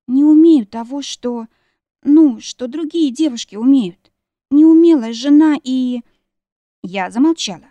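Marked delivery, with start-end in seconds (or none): 0.1-6.0 high, loud self-reproach; tearful. A narrator's reading. Wife confessing clumsiness to husband, tearful wail. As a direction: wail it, stretching the words out. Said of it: "всхлипнула".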